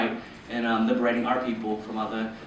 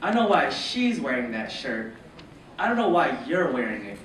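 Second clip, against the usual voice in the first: teacher's put-down. Acted. Teacher pointing at students in matching shirts, lightly voiced put-down. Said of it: "Mister Chapman ... pointing at two other people".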